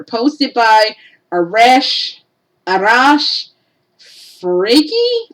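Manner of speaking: slow, hesitant, tripping over Arash; fumbling a stranger's name; unsure name reading. Real, not acted. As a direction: sound out the name uncertainly. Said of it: "I am bad with names".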